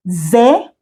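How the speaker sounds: "Zesonto" split into separate syllables; slowly. Shown as a demonstration. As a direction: break "Zesonto" up, pausing after each syllable. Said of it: "we'll say it slowly".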